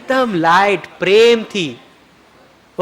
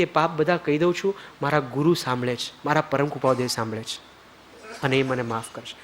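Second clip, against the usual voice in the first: softer, hushed confession; very softly; 6 semitones lower, 9 dB quieter than usual. Shown as a demonstration. Guru shows how to confess the sins quietly, softly. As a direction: murmur it as if only the guru hears. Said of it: "એકદમ ધીમેથી".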